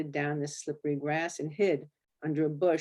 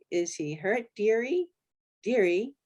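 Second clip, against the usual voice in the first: British biker asking, voice rising; light British accent; 5 semitones higher, 3 dB louder than usual. Acted. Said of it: "these blokes had British accents".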